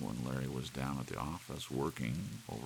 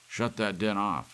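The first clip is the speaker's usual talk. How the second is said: louder and higher, barked at the clock; angry command; 7 semitones higher, 10 dB louder than usual. Acted. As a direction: shout the noise down. Husband yells at clock.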